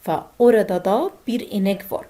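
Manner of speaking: very slow, word by word; slow model sentence; slow demo. Shown as a demonstration. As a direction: drill the sentence slowly for the class. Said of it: "فاكرين كلمة da دي".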